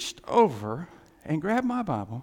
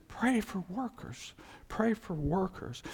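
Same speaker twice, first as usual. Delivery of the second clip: solemn quote; 2 semitones higher, 8 dB quieter than usual. Acted. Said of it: "he says".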